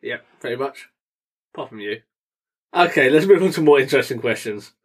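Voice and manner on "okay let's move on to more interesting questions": brisk, dry sarcastic segue. Real, not acted. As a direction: briskly move things along with a touch of sarcasm.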